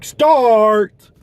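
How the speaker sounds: sharp high yell of one word; angry shout. Retold or imitated. Worker screaming through the drive-thru mic, loud yell. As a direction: scream it at the customer. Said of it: "this guy who just screamed at me".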